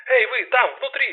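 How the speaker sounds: loud, high shout. Acted. Detective shouts into the dark hall. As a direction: raise the voice to call inside. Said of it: "повысив голос, крикнула она".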